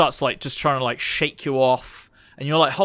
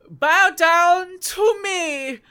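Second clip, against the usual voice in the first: high, slow, booming monster voice; booming god voice; 6 dB louder, much slower than usual. Acted. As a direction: boom it out like a giant beast. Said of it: "a booming voice comes out of it".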